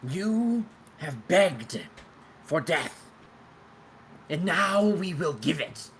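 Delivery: slow, high wailing ghost; wailing spirit voice. Acted. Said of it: "you hear, um, a wailing".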